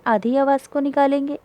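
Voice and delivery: ordinary delivery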